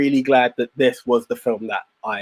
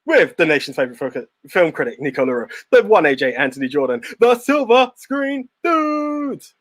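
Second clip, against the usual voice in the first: ringmaster. Shown as a demonstration. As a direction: draw out the show name grandly. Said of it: "do I go meta".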